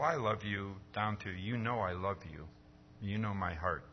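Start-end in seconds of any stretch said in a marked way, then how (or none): 0.0-0.7 tossed-off, offhand I love you; a quick casual I love you. Retold or imitated. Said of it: "from the casual". 1.3-3.8 quieter, heartfelt You know I love you; mean every word, from the heart; a deeply sincere confession. Retold or imitated. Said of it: "not offhand, not casual".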